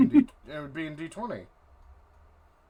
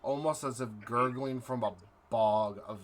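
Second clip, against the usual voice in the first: dramatic scene-setting narration; game master narration. Acted.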